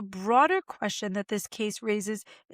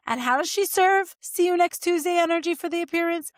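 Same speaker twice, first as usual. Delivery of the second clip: incredulous; 6 semitones higher, 4 dB louder than usual. Real, not acted. Repeating quote incredulously.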